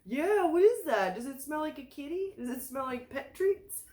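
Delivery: high sweet pet talk; talking to the dog. Real, not acted. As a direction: coo at the dog.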